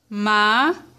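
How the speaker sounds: "Ma-ca-co" in three separate pieces; syllable by syllable. Shown as a demonstration. Teacher counting three syllables, each sounded separately. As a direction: pause after each syllable of "Ma-ca-co". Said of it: "vamos separar a palavrinha macaco".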